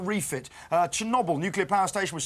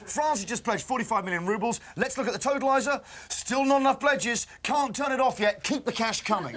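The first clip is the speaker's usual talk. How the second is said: mock telethon host; 3 semitones higher than usual. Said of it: "what we need is a T V telethon".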